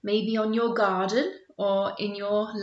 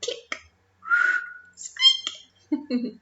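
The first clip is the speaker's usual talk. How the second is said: dolphin sounds. Shown as a demonstration. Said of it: "You make those sounds".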